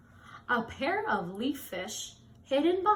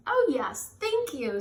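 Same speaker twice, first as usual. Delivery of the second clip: cheerful thanks; 3 semitones higher, 4 dB louder than usual. Acted. Miss Seahorse voiced in story.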